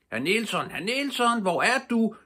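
high, loud calling out. A narrator's reading. Pippi calling loudly for her monkey Herr Nielsen. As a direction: call for the monkey across the meadow. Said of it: "råbte hun … med høj røst".

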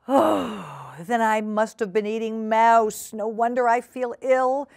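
queasy realisation, half groaning; dismayed cat voice. Acted. Duchess dismayed at eating mouse.

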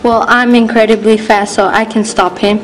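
excited. Acted. Kid hero boasting.

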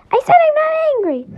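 fast, high angry denial. Acted. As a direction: snap it back fast. Denying anger, much higher and fast.

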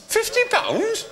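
very high, drawn-out astonished question; incredulous echo. Acted. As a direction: stretch it slowly, way up high, in disbelief. Amazed at the raised offer.

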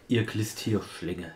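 slow, drawn-out insult; Mythi's sign-off. Retold or imitated. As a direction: drag it out like a villain's farewell. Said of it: "kam wirklich mal die Anrede so".

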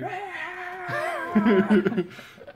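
high, loud metal wail breaking into laughter; mock metal scream. Imitating the princess's heavy metal band, mock scream.

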